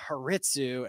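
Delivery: a soft unvoiced whisper of the name. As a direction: whisper it to yourself as if thinking it. Saying the name in his head.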